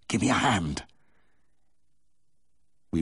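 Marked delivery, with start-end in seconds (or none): 0.1-0.8 strained plea with a touch of panting; panted. A narrator's reading. Vet to his helper while hauling out a calf, lightly panted. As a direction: call for help, a little out of breath. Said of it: "I panted".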